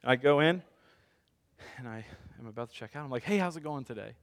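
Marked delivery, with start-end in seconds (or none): 3.2-4.1 trying to sound genuine. Retold or imitated. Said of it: "trying to be very genuine".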